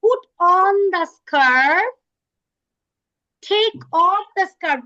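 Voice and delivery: slow, drawn-out model phrase, then steady; slow demo. Shown as a demonstration. Teacher showing the girls, slow and clear. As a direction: spell it out slowly for the class. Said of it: "The girls can do it like this".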